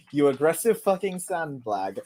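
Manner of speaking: rising into an angry shout. Acted. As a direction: read it like you're fuming. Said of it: "You can tell I was angry".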